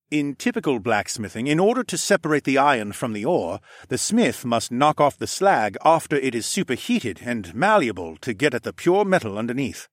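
lightly voiced eager alchemist; Falcon Man, explaining. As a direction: explain the craft as a keen expert.

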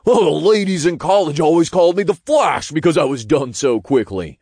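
high-pitched imp voice, bragging; boastful imp. A narrator's reading. Imp boasting about his college nickname, scoffing. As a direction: brag in a high little imp voice. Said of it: "the imp scoffed".

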